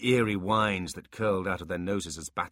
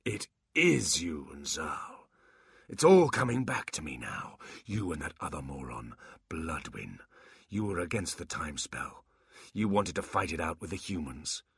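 mocking old warlock. Quan taunts Abbott.

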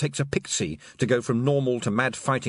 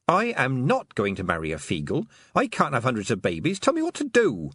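shouting; 3 semitones higher than usual. Acted. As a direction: shout the demand at the toad. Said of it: "I don't like being shouted at".

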